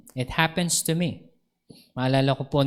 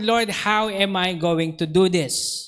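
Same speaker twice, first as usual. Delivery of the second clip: crying plea; 3 semitones higher, slower than usual. Retold or imitated. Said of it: "I was crying to the Lord".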